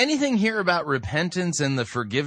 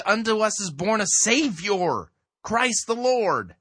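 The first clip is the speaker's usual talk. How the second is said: higher-pitched, insistent proclamation ending slowly on "Lord"; emphatic scripture quoting; 4 semitones higher than usual. Real, not acted. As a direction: lean hard on "Savior" and stretch "Christ the Lord". Insistently quotes the text against the preacher.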